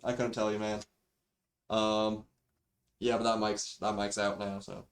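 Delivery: thin built-in microphone audio; cheap default mic. Real, not acted. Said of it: "sorry for the mic quality".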